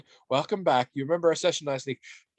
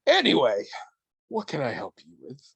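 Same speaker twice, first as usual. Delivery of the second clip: stage fright. Pretend. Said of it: "Sorry, I'm a little nervous".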